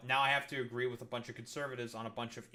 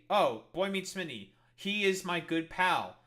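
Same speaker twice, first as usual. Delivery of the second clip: mock misgendering; 3 semitones higher, 4 dB louder than usual. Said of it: "go along with the fucking role play".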